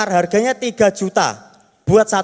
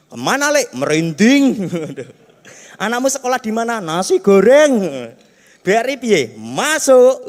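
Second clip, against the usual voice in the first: put-on drunk villagers. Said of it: "ngomongnya ngelantur".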